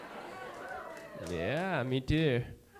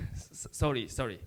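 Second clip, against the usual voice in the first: soft, stammering, feigned confusion; fake broken English; 2 semitones lower, 7 dB quieter than usual. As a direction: play dumb, quiet and halting. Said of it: "pretending not to speak English".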